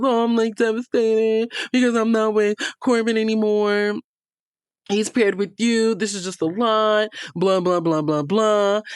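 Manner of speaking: imitating a dramatic pity act; mock devastated whine. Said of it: "victim act".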